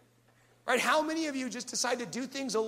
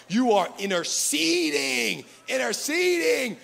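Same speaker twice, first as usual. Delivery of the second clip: slow, loud swelling cry of interceding; mock fervent prayer; 2 semitones higher, 5 dB louder, slower than usual. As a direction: build to a hammed-up preacher wail. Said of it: "We start saying words that we never said before".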